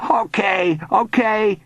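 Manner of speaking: high, whining give-in; panicky surrender. A narrator's reading. Bully beneath diving ghost, frightened surrender. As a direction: give in quickly and fearfully.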